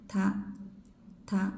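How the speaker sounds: crisp unaspirated ta, no breath. Shown as a demonstration. Teacher demonstrating unaspirated ta. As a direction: say ta cleanly without breath.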